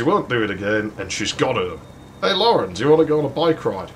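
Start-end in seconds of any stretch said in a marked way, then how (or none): 2.2-3.9 higher, fast, overly casual offer; fake breezy. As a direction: breeze past it like nothing happened. Alice brightly changing subject.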